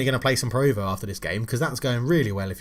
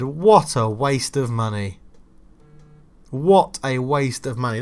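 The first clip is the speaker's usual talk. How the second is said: bitter rant; 4 dB louder, slower than usual. Real, not acted. Rant over striker's fee.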